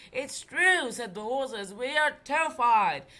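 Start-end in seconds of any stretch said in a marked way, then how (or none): 0.1-0.9 high, louder talking horse. Acted. Horses speak. 1.7-3.1 horse voice. Acted. Horses speak.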